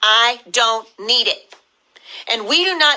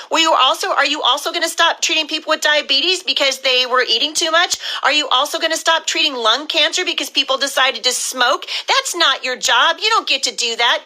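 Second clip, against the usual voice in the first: raised, indignant questioning; real anger at the doctors, pitch higher; angry; 4 semitones higher than usual. Real, not acted. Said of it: "I'm sorry if I sound angry, but I am angry".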